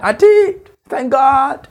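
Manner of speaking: high, loud mock-proud reply; mock triumph. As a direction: squeak it out like a proud survivor. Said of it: "they make it sound like".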